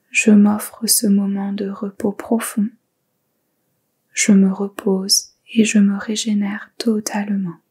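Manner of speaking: the intention whispered clearly, a steady guide's whisper; whispered affirmation. Shown as a demonstration. Guide voicing the Sankalpa for listeners to repeat, clear whisper. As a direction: speak the Sankalpa aloud in the same meditation whisper. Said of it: "vous le répétez trois fois intérieurement".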